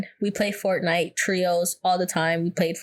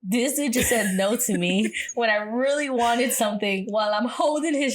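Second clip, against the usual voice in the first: laughing while telling; 2 semitones higher than usual. Real, not acted.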